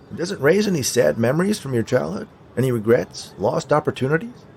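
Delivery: high, lilting questions; prompting skeleton. A narrator's reading. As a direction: coax hopefully with rising pitch. Skeleton prompts unmoved Harrison.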